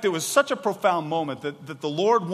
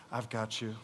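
tender; 5 semitones lower, 8 dB quieter than usual. Acted. God's tender reassurance.

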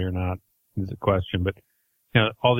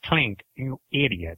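slow, a hint of a barking German general scolding Klink; slowly mock a stern general calling Klink an idiot; lightly voiced General Burkhalter; 3 semitones higher, slower than usual. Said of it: "Hogan's Heroes impression".

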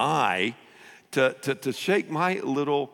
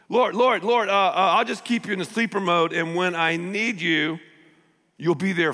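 pleading; 4 semitones higher than usual. Acted. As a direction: call on the Lord. Acting pleading prayer.

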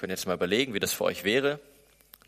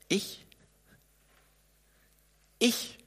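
disbelief; 11 semitones higher, 4 dB quieter than usual. Acted. Mose's disbelief.

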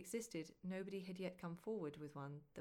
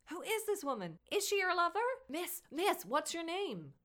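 shouting; 12 semitones higher, 10 dB louder than usual. Acted. Paparazzi mobbing with questions.

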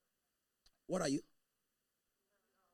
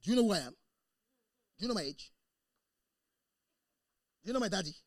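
loud offended comeback; insulted man defending himself, louder and indignant; indignant retort; 3 semitones higher, 12 dB louder, much faster than usual. Retold or imitated. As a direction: bristle and fire back at the insult. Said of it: "Somebody called him a dunce".

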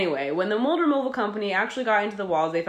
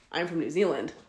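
deadpan oath; 4 dB quieter than usual. Retold or imitated. Man swearing to a doubter where he's from, deadpan. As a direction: say it as if sworn on a Bible. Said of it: "looks me again dead in the face".

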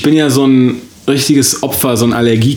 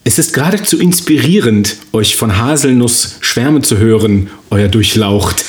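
courtly noble voice; lofty mock courtesy; snooty aristocratic german. Courtly role play reply.

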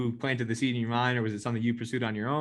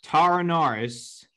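headline read-aloud. Acted. Host reading old article to player, headline read-aloud.

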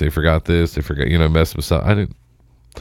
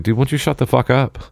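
retold scolding; 3 semitones higher than usual. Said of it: "I yelled at someone the other day".

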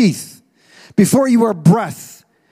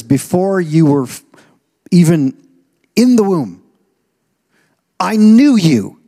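building emphasis; 4 dB louder than usual. Acted. Preacher building the verse up.

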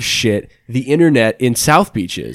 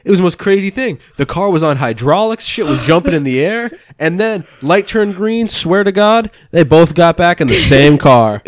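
excited Uber driver; 4 semitones higher than usual. Retold or imitated. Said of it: "he was being crazy".

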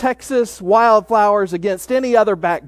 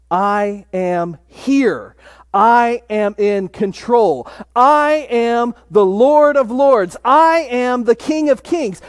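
building proclamation; slower than usual. Acted. Preacher voicing Jesus proclaiming himself King of Kings, slow and building. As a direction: build each I am line into a triumphant climax.

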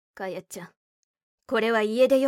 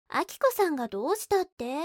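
にやにや; 7 semitones higher than usual. Acted. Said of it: "と、ニヤニヤした。".

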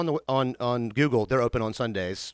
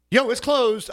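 excited call; 11 semitones higher, 4 dB louder, slower than usual. Retold or imitated. Running to locked door.

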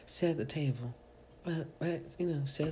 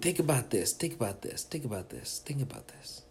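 each repeat softer, trailing off; fading repeat; 7 dB quieter than usual. Real, not acted. The comedian trailing off while teasing a Kevin Hart theory. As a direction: let it fade out each time.

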